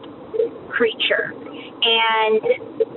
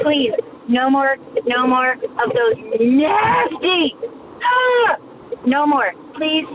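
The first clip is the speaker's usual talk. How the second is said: disgusted pleading; slower than usual. Real, not acted. Begging to stop roach topic.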